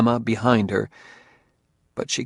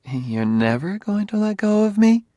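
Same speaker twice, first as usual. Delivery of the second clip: frivolous; 10 semitones higher than usual. A narrator's reading. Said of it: "hoping to keep the conversation frivolous".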